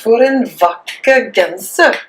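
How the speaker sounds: For en vakker genser said slowly in Norwegian; careful Norwegian For en vakker genser; Norwegian pronunciation. Shown as a demonstration. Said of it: "this one".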